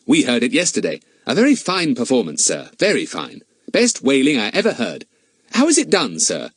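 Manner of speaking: lightly voiced enthusiastic schoolboy; a hint of an eager boy; Fatty, keen boy. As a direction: praise it politely, a boy fishing for answers. Fatty questioning the owner.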